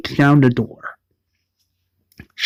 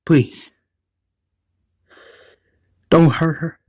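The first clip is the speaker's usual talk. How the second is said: pleading; 4 semitones higher than usual. Retold or imitated. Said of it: "It's like".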